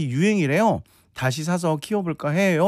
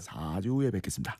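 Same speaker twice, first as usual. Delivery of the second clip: Shin Goo impression; 7 semitones lower, 9 dB quieter than usual. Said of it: "신구 선생님 유행어도".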